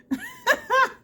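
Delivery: sudden high-pitched loud laugh; burst of laughter. Real, not acted. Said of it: "I'm laughing because".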